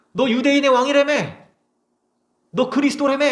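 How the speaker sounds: high, loud taunting questions; mocking jeer. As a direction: sneer at the dying king. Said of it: "그래서 사람들이 비웃어요". (군중이 예수님을 조롱하는 높고 큰 비웃음)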